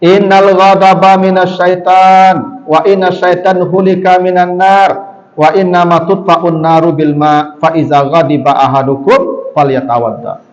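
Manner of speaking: slow chanted Arabic recitation of the Prophet's words; Arabic hadith recitation. Retold or imitated. Preacher quoting the Prophet to the congregation, slow recitation. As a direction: intone the hadith slowly, like scripture. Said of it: "Kata Nabi".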